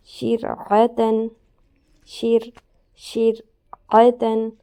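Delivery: شرعتن drawn out very slowly and loudly, with a thin, light ر; slow Quran recitation. Shown as a demonstration. Teacher showing the thin ر, loud slow recitation. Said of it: "را ساکن ہے اور اس سے پہلے شین کے نیچے زیر".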